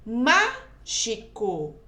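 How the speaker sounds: "Mágico" slowly, with a strong rising MÁ; drawn-out "Mágico", heavy on MÁ; stress on MÁ. Shown as a demonstration. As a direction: hit the first syllable MÁ of "Mágico", then separate the rest. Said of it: "é o má".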